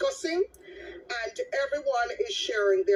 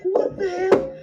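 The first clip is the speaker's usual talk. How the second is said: alarmed exclamation; 8 semitones higher, 8 dB louder, slower than usual. Retold or imitated. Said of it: "I was like".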